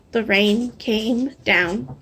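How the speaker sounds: slow, drawn-out storybook refrain; hushed, slow chorus line. A narrator's reading. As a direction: let the refrain fall slowly. Refrain slowed, soft.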